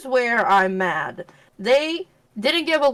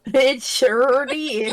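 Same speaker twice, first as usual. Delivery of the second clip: slow, higher Southern drawl; mock Southern accent; 4 semitones higher, much slower than usual. Friend echoing friend's slip, in a drawn-out Southern accent. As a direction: stretch it out in a put-on country twang. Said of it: "with that kind of accent".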